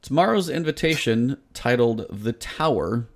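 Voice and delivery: dripping with sarcasm and disgust; sarcastic. Real, not acted. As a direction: read it slowly like it's a bad joke. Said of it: "sarcasm or disgust in my voice".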